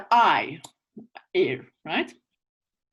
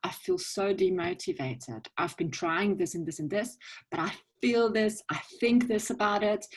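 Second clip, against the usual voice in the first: demo feelings. Shown as a demonstration. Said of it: "So then you say".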